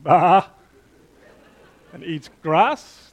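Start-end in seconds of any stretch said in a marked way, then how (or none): 0.0-0.5 mild mock goat bleat; a quick imitated goat noise. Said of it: "Goat is not something that goes".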